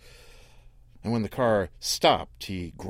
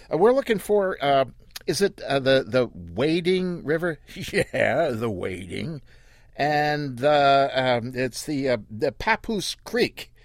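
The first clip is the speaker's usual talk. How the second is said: higher, halting and unwilling; reluctant driver; 4 semitones higher than usual. Acted. Daddy reluctantly asking Earl the way, higher and halting. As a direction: ask while hating to ask. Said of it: "Daddy said it like he didn't want to say it".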